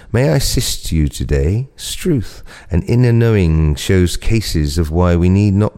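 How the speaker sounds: slow, measured poetry recital; poem reading. Acted. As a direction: read each line slowly like verse. Second poem read aloud.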